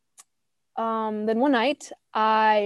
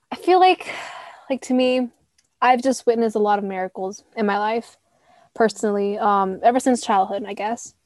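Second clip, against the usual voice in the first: cracking, catching voice. Real, not acted. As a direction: voice catching in the throat. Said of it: "my voice is cracking".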